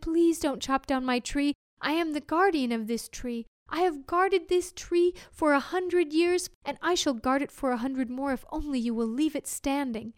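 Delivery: a lightly voiced fairy guardian, gently pleading; fairy begging the woodcutter to spare her tree.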